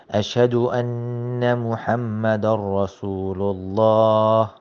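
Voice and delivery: a recited, chanted "أشهد أن لا إله إلا الله"; adhan recitation. Shown as a demonstration. Teacher recites the adhan line for students. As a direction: chant it like the call to prayer.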